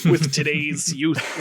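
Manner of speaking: slow, lightly voiced old man; a hint of a doddering grandpa. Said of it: "when I started doing the old man voice".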